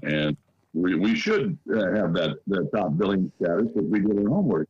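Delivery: muffled, like talking through a pillow. Real, not acted. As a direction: voice smothered and muffled. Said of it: "you sound like you're talking through a pillow".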